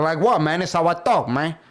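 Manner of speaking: mock Cuban accent, defensive; put-on Hispanic accent, shrugging it off; Scarface. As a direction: imitate a fake Cuban gangster accent. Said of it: "Why do you sound like that?".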